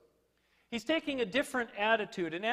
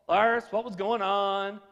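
slow, louder mock-stern question; reproving bishop; 5 dB louder, slower than usual. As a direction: draw it out like a bishop calling to account. Obligatory call from the bishop.

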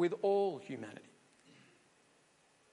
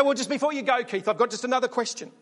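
pushy interviewer; faster than usual. Pretend. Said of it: "And then you say".

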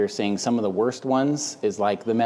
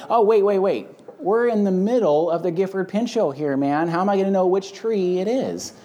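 higher, urgent acted objection; alarmed protest; 6 semitones higher than usual. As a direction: play someone suddenly stopping him in confusion.

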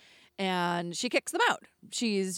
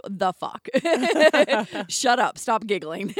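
laughing hush; 2 semitones higher, 8 dB louder than usual. Retold or imitated. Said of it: "And Job and Tom, like".

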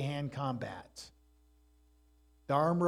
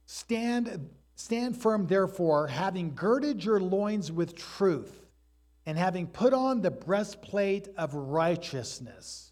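raised, ringing scripture read; formal reading of the verse; 3 semitones higher than usual. Acted. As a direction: proclaim the verse to the congregation. Reads scripture aloud.

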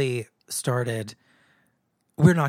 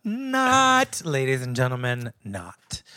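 announcer-style; 5 dB louder, slower than usual. Acted. Announcing the joke loudly.

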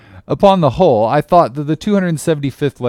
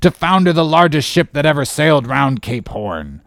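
loud, high angry tirade, easing toward the end; roaring; 6 semitones higher, 4 dB louder than usual. A narrator's reading. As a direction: explode on the oath, then rant on. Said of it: "roared Peleg".

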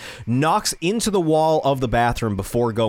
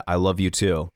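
tender, lowered voice; sweet; 6 semitones lower than usual. Retold or imitated. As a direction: gently relay her sleepy declaration. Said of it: "really sweet moments".

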